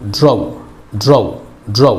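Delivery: ड्रॉ ending in a light "ow" glide; light Lucknow-style vaav. Shown as a demonstration. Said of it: "हल्का सा लखनऊ की वाव की तरह". (ड्रॉ, लखनऊ की वाव जैसा हल्का अंत)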